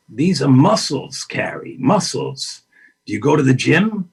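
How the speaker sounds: slow, emphatic Pacino lecture with a breathy aside on her name; Al Pacino impression. Pacino lecturing the actress about muscles, slow intense imitation. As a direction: spell it out like an intense acting coach. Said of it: "your imitation is genius".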